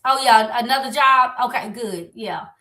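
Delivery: loud then fading to a flat, bored okay; uninterested reply. Shown as a demonstration. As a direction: brush off the news, losing interest as you go. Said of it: "That's, that's not what we want".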